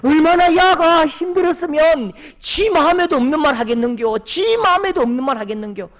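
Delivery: mother pleading with her angry husband. Retold or imitated. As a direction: beg the angry father to bear with him. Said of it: "화난 아버지에게 좀 참으라고".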